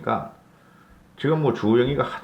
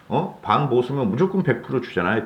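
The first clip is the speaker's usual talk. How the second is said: usual speaking voice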